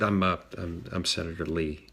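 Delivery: half-swallow the name, embarrassed to say it; mumbled. Retold or imitated. Senator telling a guard his title, a reluctant soft mumble. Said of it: "So I kind of mumbled it".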